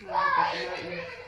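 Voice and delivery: squeaky high falsetto repeat. Pretend. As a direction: say it in a tiny high voice.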